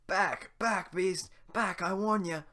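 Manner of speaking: high, loud frightened threat; scared villager. Acted. Villager warns Shrek off with a torch, high and frightened. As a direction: shout him back with a shaking nerve.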